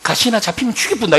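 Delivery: gruff mock threat in Gyeongsang dialect. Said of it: "이게 사투리니까".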